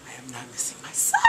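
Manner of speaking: determined vow. Real, not acted. Vowing to attend.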